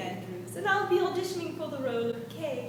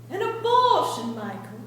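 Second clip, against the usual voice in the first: dramatic outburst; 6 dB louder than usual. Acted. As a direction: hurl it at Michael. Acted Godfather outburst.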